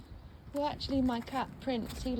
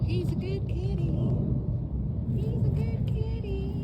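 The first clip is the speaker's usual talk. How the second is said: higher, louder sing-song praise; excited pet praise; 9 semitones higher, 7 dB louder, slower than usual. Real, not acted. Praising her cat, high and loud. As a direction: gush over the kitty.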